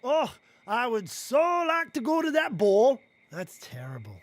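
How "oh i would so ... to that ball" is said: louder hammed-up silly girl voice; funny voice. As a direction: overplay the longing, comically. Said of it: "do your funny voice".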